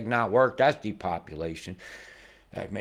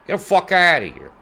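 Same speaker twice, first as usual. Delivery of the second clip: incredulous outburst; 10 semitones higher, 9 dB louder than usual. Real, not acted. Disbelief at the pressure chart.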